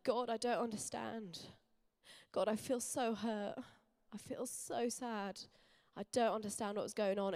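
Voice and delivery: replaying a broken-hearted cry to God, lightly; retold tearful prayer. At the worship night, retelling her tearful prayer to God. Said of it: "as I sobbed and I sobbed".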